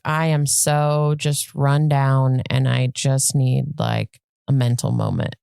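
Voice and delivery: low, slow, worn-out voice; run down. Acted. Voicing someone burnt out who needs a moment, weary. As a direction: drag it out, drained and low.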